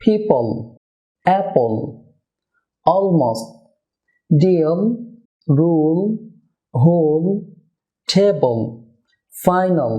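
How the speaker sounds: "পিপল, অ্যাপল, টেবল" with a dark, unreleased final L; thick L, never thinned. Shown as a demonstration. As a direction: hold each syllable-ending L back on mid-tongue. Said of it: "dark এল হবে".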